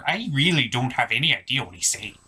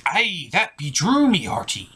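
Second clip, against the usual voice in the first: pirate voice; 3 semitones higher than usual. Acted. Pirate agrees with host.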